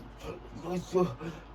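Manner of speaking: acted breathy huffing; winded panting. Student with cotton mouth after the fight, acted panting. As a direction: mimic a dry-mouthed, worn-out gasp. Mimics being dry and winded.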